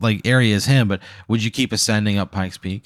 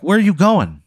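mock angry director; 9 semitones higher than usual. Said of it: "he's fucking pissed, man".

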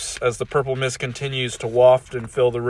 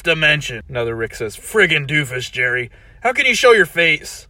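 scornful Rick voice; 4 semitones higher, 6 dB louder than usual. Acted. Ricks mocking Original Rick.

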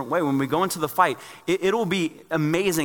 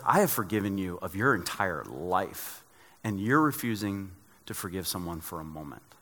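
God speaking gently; 4 semitones lower, 4 dB quieter than usual. Retold or imitated. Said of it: "God's like".

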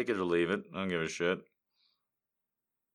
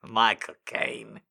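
slow Michael Caine; 3 dB louder, slower than usual. Shown as a demonstration. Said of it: "which was which".

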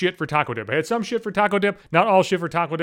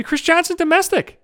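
mock announcer; 12 semitones higher than usual. Hyped self-branding.

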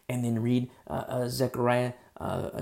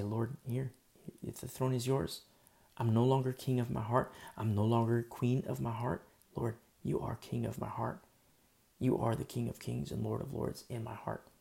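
quiet prayer; 5 dB quieter than usual. Acted. Acted prayer of surrender.

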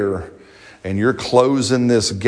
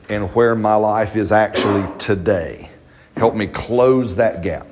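prayerful plea. Acted. Prayer voiced to the Lord.

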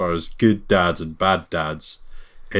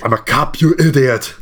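higher-pitched quoted cop outburst, rising on "idiot"; hammed-up action-hero cop line; mock movie cop; 5 semitones higher, 3 dB louder than usual. Co-host echoing the Kindergarten Cop quote, mock movie cop. Caps the co-host's film quote.

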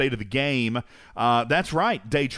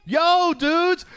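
much higher loud yell; 13 semitones higher, 4 dB louder than usual. Real, not acted. Little boy yells hello to podcast listeners. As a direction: shout the greeting out. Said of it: "Yell out".

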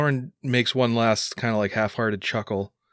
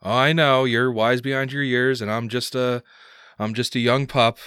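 playful, a little louder, pitched up at the start; teasing son; 3 semitones higher, 4 dB louder than usual. Acted. Son teases his father about being young, playful. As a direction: tease with a chuckle after.

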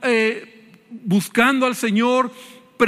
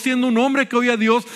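normal talking voice

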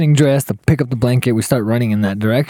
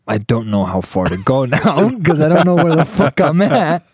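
laughing while talking; 3 semitones higher than usual. Real, not acted. Storyteller lost in the desert with his date, laughing through it. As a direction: voice rising into a laugh mid-line. Cracks up telling own story.

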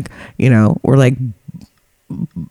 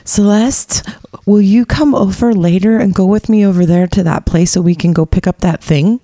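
lightly voiced friend, higher pitched; higher mimicry of a friend asking a favor; imitated friend; 5 semitones higher than usual. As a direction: put on the friend's vague request, lightly. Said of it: "she's like".

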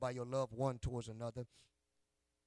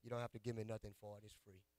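secretive; 3 semitones lower, 6 dB quieter than usual. Acted. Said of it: "Can I give you a, a secret?".

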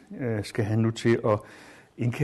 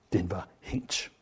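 slow, hushed whisper, much softer; 4 semitones lower, 5 dB quieter, slower than usual. Acted. Teacher reading the hanging lamp line to students, whispered. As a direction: let the words fall into a chilling whisper.

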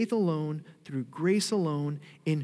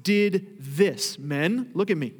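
boastful; 2 semitones higher, 5 dB louder, slower than usual. Retold or imitated. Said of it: "We love to be able to say".

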